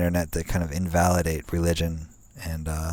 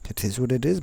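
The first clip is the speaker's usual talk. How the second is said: higher, breezy it is what it is; mock shrug in the computer's voice; 7 semitones higher, faster than usual. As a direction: toss it off like careless software. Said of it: "It's like".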